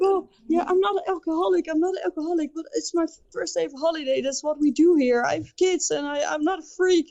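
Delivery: high, cheery voice of a tipsy stranger, a bit fast at the end; imitating drunk guy. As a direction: play the tipsy neighbour insisting he's harmless. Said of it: "He's like".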